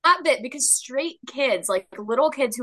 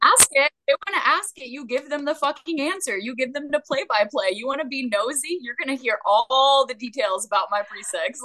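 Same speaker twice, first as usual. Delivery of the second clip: higher, in-your-face attitude; defiant sass; 3 semitones higher than usual. Real, not acted. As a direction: dare the nosy ones to ask. Defiant rant at nosy people.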